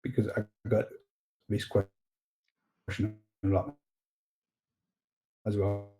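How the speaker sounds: choppy, glitchy call audio; breaking up like a bad connection; glitchy robotic call. Real, not acted. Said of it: "your connection is, is glitchy".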